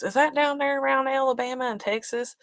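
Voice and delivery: mock geographic confusion; imitating clueless locals. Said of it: "half the people up here don't even know".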